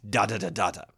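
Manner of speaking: five "da" beats, DA-da-da DA-da; five-syllable line. Shown as a demonstration. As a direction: chant "da" strong-weak-weak, strong-weak. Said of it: "only five syllables of".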